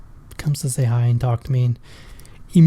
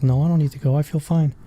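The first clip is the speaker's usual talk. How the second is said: softer, offhand reassurance; downplaying it; 5 dB quieter than usual. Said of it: "But I'm like".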